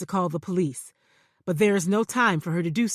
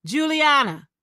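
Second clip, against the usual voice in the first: calling out; 7 semitones higher, 7 dB louder than usual. Acted. Calling out in parking deck.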